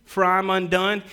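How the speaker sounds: loud, high cry of woe; anguished cry. Acted. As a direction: cry it out as a man undone before God. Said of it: "Isaiah... he says".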